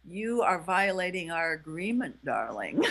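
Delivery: measured, mock-soothing reproach; calm, soothing tone. Shown as a demonstration. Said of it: "in a calm, soothing tone of voice".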